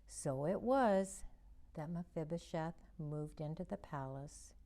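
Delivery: put-on gentle storybook narration for kids; reading to children. A narrator's reading. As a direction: read it like a children's Bible story. Reads Bible story to children.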